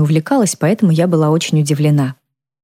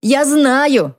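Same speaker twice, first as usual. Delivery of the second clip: much higher, shrill cry; shout; 10 semitones higher than usual. A narrator's reading. Mother insisting to her daughter, screaming. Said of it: "Теперь она снова кричала".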